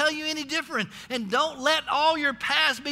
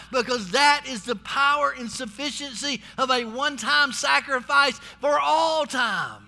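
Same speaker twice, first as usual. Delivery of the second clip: preaching at full force. Real, not acted. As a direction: drive the point home to the church.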